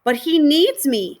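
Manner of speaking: high, slow, loud cry; tearful shout. A narrator's reading. Girl shouting at her father, high tearful cry. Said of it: "she shouted".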